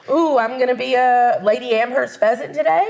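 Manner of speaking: laughing, playful bird voice; mock peacock thought. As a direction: voice a vain bird's thought while laughing.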